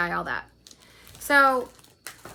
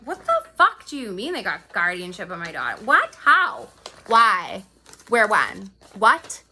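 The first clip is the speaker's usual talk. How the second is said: retold outburst; 4 dB louder than usual. Retold outraged reply to friend.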